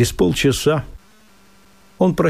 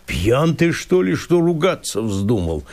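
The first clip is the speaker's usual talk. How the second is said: изумление; 2 semitones higher than usual. Acted. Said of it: "с изумлением лесник".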